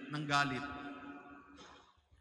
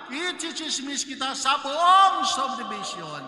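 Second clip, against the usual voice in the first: taunting, building to a loud threat; mock spiteful gossip; 2 semitones higher, 6 dB louder than usual. Priest mimics a gossip threatening payback, mock taunt to shout. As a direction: play the petty neighbour spoiling for revenge.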